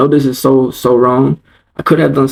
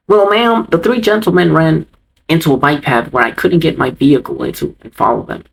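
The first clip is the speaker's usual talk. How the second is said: defensive guard imitation; 2 semitones higher than usual. Guard explaining himself to angry mom, mock defensive. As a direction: mimic a guard making excuses.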